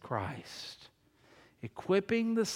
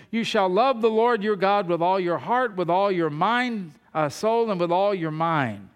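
loud, emphatic Bible reading; scripture reading; 2 semitones higher, 7 dB louder than usual. Real, not acted. Preacher reads the great commandment in the law, emphatic scripture reading. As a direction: proclaim the commandment to the congregation.

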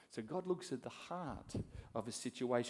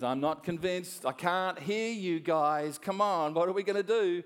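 demanding coach; 5 semitones higher, 8 dB louder than usual. Acted. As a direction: goad the team, rising in pitch and volume. Coach demanding louder answer.

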